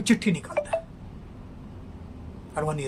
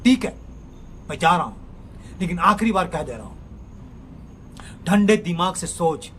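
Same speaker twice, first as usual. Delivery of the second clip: angry reply. Acted. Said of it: "Praveen को भी गुस्सा आ जाता है".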